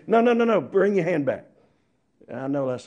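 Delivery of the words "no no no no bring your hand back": put-on loud, high no no no to a child; alarmed parent calling out; parent's warning. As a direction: stop the child from touching the stove. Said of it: "So they say".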